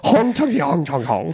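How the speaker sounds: slow, chanting joke Jamaican accent; mock Western Jamaican. Shown as a demonstration. Joking about Western Jamaican to mates, slow nonsense accent. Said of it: "have you ever heard Western Jamaican".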